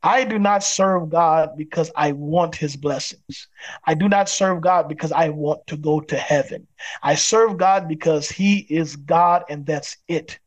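slow, deliberate declaration; emphatic. Real, not acted. Pastor declaring why he serves God, emphatic. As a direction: weigh each word firmly, unhurried. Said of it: "I will say this emphatically".

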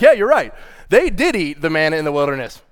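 dry, mildly cheeky concession; smirking. Retold or imitated. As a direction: say it with a little smirk. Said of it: "he said it with a little smirk on his face".

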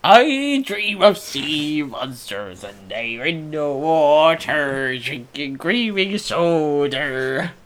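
slow, loud, spooky dreamer; dreamy sleep talk. Pretend. Friend copies dreamy voice, louder.

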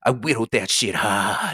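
slow mock Maine twang; coastal Maine accent. Podcaster playing their woodworking friend, slow Maine accent. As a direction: drag it out in a put-on Maine accent. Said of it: "he talks all fucking weird".

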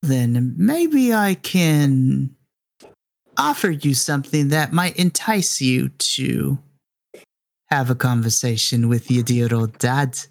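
lightly voiced, coaxing villain; villainous grandfather. Villain enticing his son over the radio, theatrically coaxing. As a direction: draw out the opening, then pause for effect.

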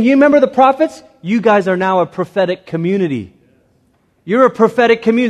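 fast, high, urgent; rally them with fire; excited. Retold or imitated. Voicing Jesus excited.

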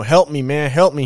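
man held by the neck begging the bystander for help; retold plea for help. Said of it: "held her by her neck and was like".

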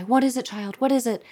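high, anxious questioning, lightly acted; mock concern. Acted alarmed questions to terrified girl.

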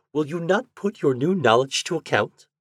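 gently mock her husband; teasing wife. A narrator's reading. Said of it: "very comical and insolent".

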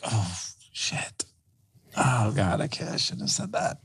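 soft, breathless whisper of regret; horrified whisper. Retold or imitated. Father realizing he insulted his kid, hushed horrified whisper.

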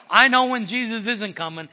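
emphatic declaration. Real, not acted. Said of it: "let me tell you what".

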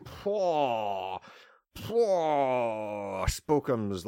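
drawn-out whimpering wail; mock sob. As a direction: wail it like a sobbing ghost. Mock sobbing over finances.

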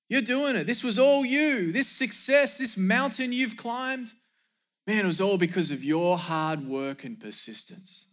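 high, gushing flattery settling back down; voice of pride. Acted. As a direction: puff them up in a high sing-song, then ease down. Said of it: "that voice talks like this".

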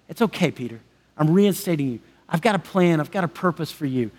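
Jesus gently reassuring Peter, tender. Acted. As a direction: comfort him quietly. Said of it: "in this beautiful, tender moment".

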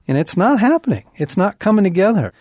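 high-pitched exasperation, reliving it; retold frustration. Father on a disappointing fishing trip, retold frustration. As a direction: complain as if the frustration is back. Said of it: "and I'm pissed".

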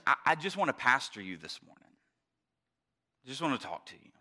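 soft, low pastoral talk; in all seriousness. Real, not acted. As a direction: drop to a quiet, serious register. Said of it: "But in all seriousness".

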